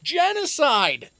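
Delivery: loud, slow, stretched out; dramatic exclamation. Acted. Streamer hamming up the warning for his viewers. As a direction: boom it like a horror trailer.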